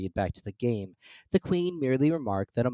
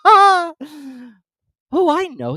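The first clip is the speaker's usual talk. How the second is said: higher, louder eager cry; exclaiming; 12 dB louder, much slower than usual. A narrator's reading. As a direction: blurt it out eagerly. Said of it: "exclaimed Alice".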